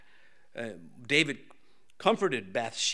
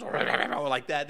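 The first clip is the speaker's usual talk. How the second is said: mocking voice; 3 dB louder, slower than usual. Shown as a demonstration. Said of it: "talk in some high voice like this".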